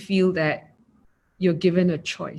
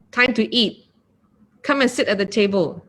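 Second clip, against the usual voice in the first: louder, matter-of-fact orders; transactional; 3 dB louder than usual. Shown as a demonstration. Spouse summoning partner to dinner, louder and curt. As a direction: call them to eat like a chore. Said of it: "They practice transactional speech".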